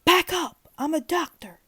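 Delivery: high loud shout; high, loud urgent yell. A narrator's reading. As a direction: yell to clear the way. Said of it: "I yelled".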